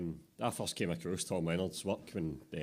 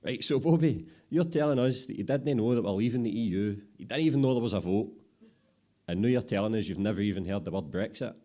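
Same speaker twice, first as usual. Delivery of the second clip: louder, disbelieving summing-up; incredulous apprentice; 3 semitones higher, 7 dB louder than usual. Acted. Apprentice recaps Bobby's ignorance, loud and disbelieving. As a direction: lay it all out, amazed.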